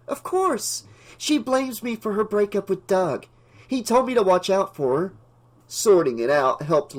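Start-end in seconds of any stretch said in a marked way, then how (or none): 0.1-5.1 indignant. A narrator's reading. Indignant explanation after prank.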